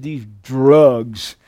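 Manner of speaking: a hint of the film sheriff's delivery; Tommy Lee Jones. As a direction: quote the sheriff with a light impression. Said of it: "I love the way he said".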